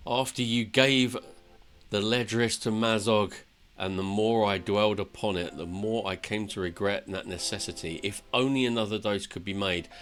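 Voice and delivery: lightly acted fantasy monologue; earnest storyteller reading game dialogue; dramatic tale telling. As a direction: recount it like an epic journey. Reads dwarf's tale in character.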